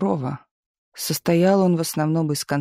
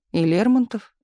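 disbelieving; 4 semitones higher than usual. Acted. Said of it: "не поверил Миша".

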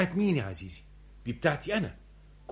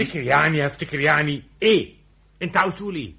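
irritated mocking; 5 dB louder than usual. Mocks clerk's verbal tic, annoyed.

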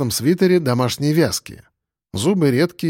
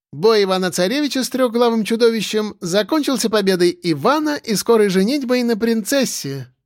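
put-on teasing girl; 8 semitones higher than usual. A narrator's reading.

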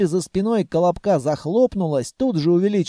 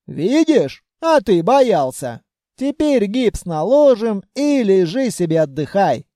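put-on raised, scolding old granny voice; scolding grandmother; 3 semitones higher, 3 dB louder than usual. Grandmother scolding Vanya after the explosion, raised. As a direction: hug and scold in one breath.

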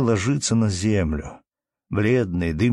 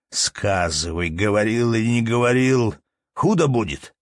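scolding; 2 semitones higher than usual. Acted. Manager berating peasant Anton over unpaid taxes, scolding. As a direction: badger him like a petty tyrant.

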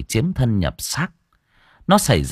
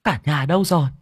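calling out; 6 semitones higher, faster than usual. Acted. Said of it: "gọi to".

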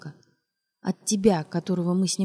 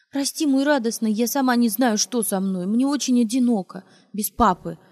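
hypocritical; 3 semitones higher, 3 dB louder than usual. Acted. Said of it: "лицемерно сказала она".

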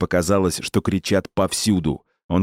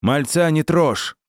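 выше и медленно, с упором на «мальца»; защити мальчишку криком; 9 semitones higher, slower than usual. Acted. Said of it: "крикнул священник". (крик священника)

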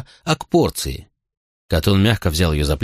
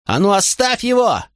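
shouting while running; 12 semitones higher than usual. A narrator's reading. Mother running at her son with a ladle, shrieking. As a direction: scream it as she charges in. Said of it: "кричала она на бегу".

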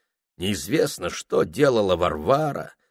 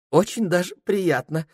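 lightly voiced tipsy clerk; 10 semitones higher than usual. Ilya drunk.

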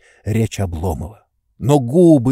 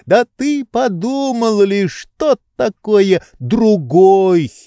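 high, slow, reproachful lecturing; a pampered master scolding his servant; higher lordly voice, drawn out in reproach; indignant master; 9 semitones higher, 4 dB louder, slower than usual. A narrator's reading. Oblomov lectures Zakhar.

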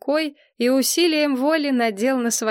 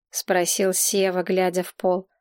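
ordinary delivery

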